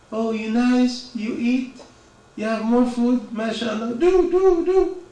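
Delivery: imitating a mother pushing food on her child; doting mother. Mother coaxing child to eat.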